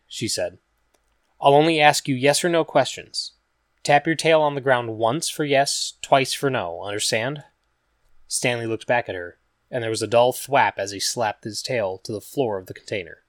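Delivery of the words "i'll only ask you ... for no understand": lightly voiced young woman, slightly higher; patient, careful questioning; Regina's voice.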